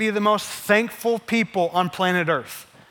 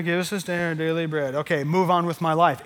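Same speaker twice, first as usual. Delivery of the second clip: perfunctory, going-through-the-motions prayer; mock dutiful recital with little feeling; unemotional rote prayer. Shown as a demonstration. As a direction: recite it offhand, just getting it over with. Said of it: "it's emotional. It's not, you know".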